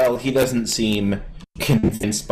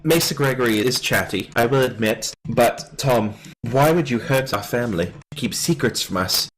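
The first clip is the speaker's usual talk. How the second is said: lightly voiced, prim noble boy; a hint of a lordling's measured reproach; formal young noble; 4 semitones higher than usual. Young lord confronts Tom over a secret letter, formal reproach.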